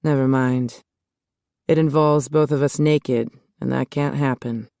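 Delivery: a hint of husky low voice. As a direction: keep it low and husky, trailing off. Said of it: "His words were low and husky".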